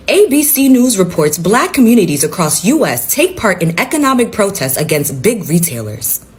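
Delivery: formal newsreader delivery; news anchor voice. Acted. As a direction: read it like a TV anchor. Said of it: "I'ma put on my best anchor voice".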